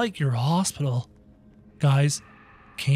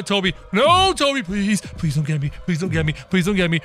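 scared pleading; faster than usual. Real, not acted. Monster chasing in horror game.

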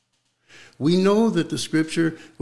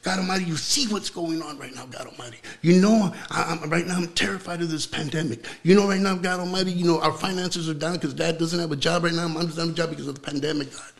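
a light plea to God about the pandemic; mock prayer of worry, lightly voiced; pleading prayer; faster than usual. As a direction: voice a worried believer pleading with God. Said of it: "you can say the very same thing".

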